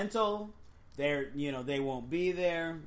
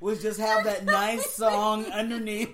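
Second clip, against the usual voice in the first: laughing; 2 semitones higher, 4 dB louder than usual. Real, not acted. Laughing fit, explaining the joke.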